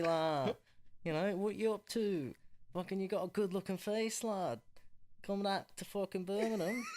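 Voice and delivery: Simon Cowell. Acted. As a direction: put on a wobbly regional English accent. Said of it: "I keep losing the accent".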